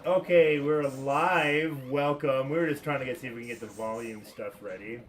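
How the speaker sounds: thin, tinny mic sound; tinny, metallic voice through a bad mic. Real, not acted. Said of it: "your voice is really tinny".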